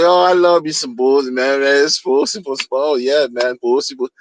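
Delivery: lightly voiced fanboy gushing; a hint of a gushing fan, trailing off; mocking the founder. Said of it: "all he kept saying".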